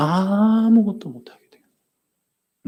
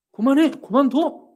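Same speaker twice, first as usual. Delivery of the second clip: high, urgent double order; commanding; 9 semitones higher than usual. Shown as a demonstration. Preacher demonstrates stopping inner unbelief, commanding. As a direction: order the nagging voice to stop, pitched up. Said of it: "이렇게 해야 돼요".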